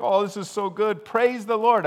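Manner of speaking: high, bright mock delight; cheery churchgoer praising the Lord; imitating gushing joy. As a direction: gush like everything's going your way. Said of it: "and we're like".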